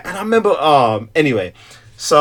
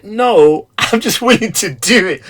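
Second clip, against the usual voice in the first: higher, laughing protest; 7 semitones higher, 4 dB louder, slower than usual. Retold or imitated. Husband answers his wife, laughing and higher. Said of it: "I'm like".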